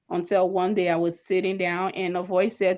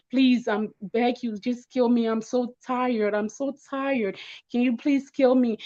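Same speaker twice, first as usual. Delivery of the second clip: higher, pleading, a touch tearful; retold crying plea; 4 semitones higher than usual. Begging her friend in the car to end it, tearful plea. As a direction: beg through mild retold tears. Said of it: "I started crying, begging her".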